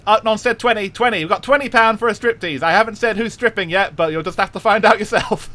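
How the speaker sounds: Cockney auctioneer. Pretend. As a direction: sell the bus seat like a market auctioneer, Cockney. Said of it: "When does the auction begin?".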